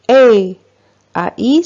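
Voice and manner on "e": "E" said as one pure vowel, held; letters sound as one. Shown as a demonstration. Teacher shows pupils what A and I give together, one held vowel "E". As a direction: say "E" as a single sustained vowel for A-I. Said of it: "A I, ça donne".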